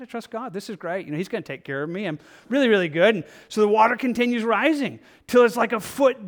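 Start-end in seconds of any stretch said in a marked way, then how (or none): 0.0-3.1 breezy carefree refusal. Acted. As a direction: brush off the warning, all smiles. Man ignoring emergency bullhorns.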